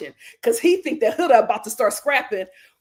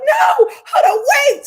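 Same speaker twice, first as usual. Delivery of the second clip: calling out; 13 semitones higher, 9 dB louder than usual. Retold or imitated. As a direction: call her back urgently. Girls calling after her.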